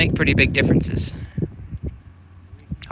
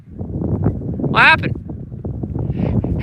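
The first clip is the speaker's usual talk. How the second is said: whispered; 7 semitones higher, much slower than usual. Real, not acted. Quiet aside after a fall.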